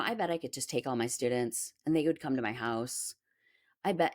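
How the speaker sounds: retold smug boast in a whisper; bragging whisper. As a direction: mimic the cocky teacher under your breath. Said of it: "there's one guy who was bragging".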